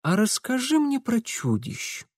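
soft, coaxing ask. A narrator's reading. Mitya coaxing a scared girl, soft and ingratiating. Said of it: "вкрадчиво попросил Митя".

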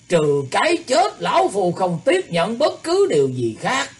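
cold voice. A narrator's reading. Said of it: "lạnh lùng nói".

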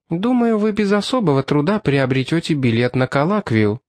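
a hint of a helpful cashier; lightly voiced woman cashier. Cashier explains at length.

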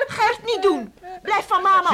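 loud, high, alarmed cry; frantic plea. Acted. Mother crying out to stop the father hitting their daughter. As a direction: hold him back, pleading.

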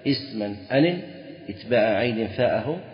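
chanted reading of the Alfiyya line; mild verse chant; reciting verse. Shown as a demonstration. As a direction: lilt the poem line out. Reciting Ibn Malik verse.

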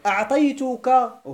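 slow, deliberate أعطيتكه; teacher stretching the example word; slow demo. Shown as a demonstration. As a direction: lay out أعطيتكه syllable by syllable. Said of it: "إذن قدمت الأخص أنا ولا لا؟".

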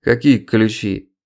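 put-on slow slurred drunk voice; barely moving a drunk tongue; blackout drunk. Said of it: "еле ворочал языком".

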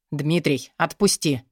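low, curt command; sharp call. Acted. Twin brother at the door ordering Dmitry, sharp command. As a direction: order him sharply from the doorway. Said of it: "резкий возглас".

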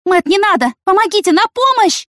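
high, loud scream for help. A narrator's reading. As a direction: cry out in panic. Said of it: "закричала Яна". (высокий громкий крик о помощи)

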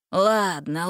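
resigned sigh, rising; sighing give-in. A narrator's reading. Villain giving in to Gretel, sighing. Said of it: "вздохнул Карабас".

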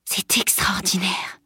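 slow, amazed whisper; murmured. A narrator's reading. Boy secretly pointing out something to his friend, murmuring. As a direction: whisper it in wonder, drawn out. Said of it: "murmura-t-il".

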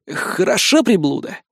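ordinary delivery, nothing marked

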